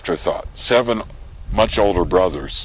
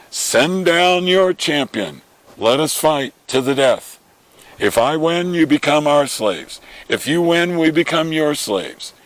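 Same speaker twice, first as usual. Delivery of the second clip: giant's challenge shout; 8 semitones higher than usual. Retold or imitated. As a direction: bellow it like a giant daring the enemy. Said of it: "he's out there shouting at".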